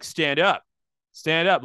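loud stern dad barking orders; stern dad command. Retold or imitated. Dad daring the guy to fight, loud and stern.

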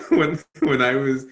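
talking through a real laugh. Real, not acted. Speaker to audience, amused at heads popping up, laughing. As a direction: break up laughing, then carry on.

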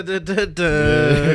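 loud drawn-out "duh" banging noises; imitated banging. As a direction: mimic kids pounding away noisily. Imitating kids banging with bats.

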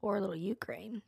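hushed, almost whispered; subdued sympathy. Real, not acted. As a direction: say it softly with real pity. Sober turn to the war.

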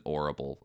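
"orrible" without the H sound; dropped H. Shown as a demonstration. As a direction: drop the H and begin "orrible" on the O. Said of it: "instead of".

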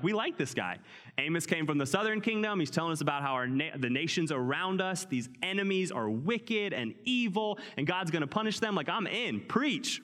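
an excited crowd member cheering him on; eager crowd. Retold or imitated. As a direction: cheer like a fan in the crowd, rising to preach. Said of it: "They're gathering around being like".

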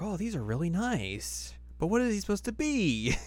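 hammed-up high Kagome; mocking Kagome voice. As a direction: squeak it out as a teen girl. Voicing Kagome.

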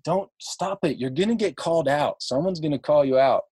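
a touch of mock pleading; wife warning. Wife warning her show-off husband in the elevator, lightly imitated. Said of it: "my wife, said".

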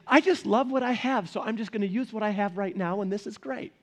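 husband lovingly imitating his wife's contentment. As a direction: play his content wife, sweetly pleased. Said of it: "I use that voice because that's kind of like my voice for her".

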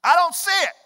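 high, loud exasperated I don't see it; mock frustrated squint; frustrated whine. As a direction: complain like you're straining your eyes. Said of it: "And you're like".

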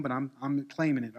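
ordinary delivery

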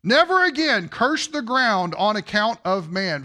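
NEVER AGAIN punched, each phrase firmly stressed; emphatic. Retold or imitated. Preacher rereading the Lord's vow, emphatic. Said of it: "how emphatic the emphasis is".

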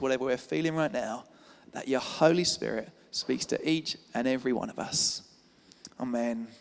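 gentle closing prayer; spoken prayer. Real, not acted. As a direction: pray aloud for the congregation, easing into a low amen. Leads a prayer.

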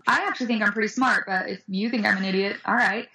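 unfazed comeback, starting high and settling; super calm. Acted. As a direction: calmly shrug off the insult. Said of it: "I say super calm".

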